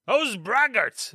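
slow mocking drawl; ironical mimicry. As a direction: sneer it, aping the cardinal. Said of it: "with an ironical tone".

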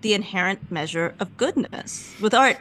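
measured, even statement at normal volume; calm, unangry critique; not screaming. Retold or imitated. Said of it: "I said it like that, like, I'm not screaming".

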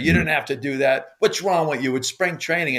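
mild mock yell, pitched high; retold screaming. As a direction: re-enact scolding someone on the run. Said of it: "I start screaming at him".

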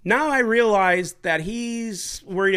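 slow, laughing words; laughing slowly. Real, not acted. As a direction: let the laugh drag the words. Still laughing.

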